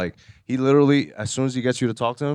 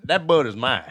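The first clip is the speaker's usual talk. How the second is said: Southern gentleman. Retold or imitated. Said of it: "It sounded like a Southern gentleman".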